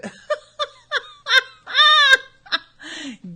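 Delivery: big, high burst of laughter; real loud laugh. Real, not acted. Laughs about Devin.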